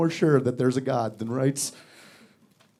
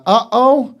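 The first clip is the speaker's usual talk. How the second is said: parrot voice; 6 semitones higher, 7 dB louder than usual. Retold or imitated. Parrot voice imitated.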